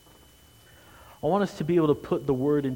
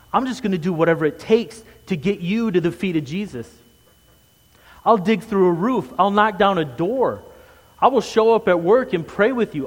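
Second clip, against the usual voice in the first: loud, high, climbing sermon voice at full force; rising fervent pulpit cry; impassioned preaching; 4 semitones higher, 6 dB louder than usual. Acted. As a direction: preach it like a rallying vow. Preacher voicing a bold pledge.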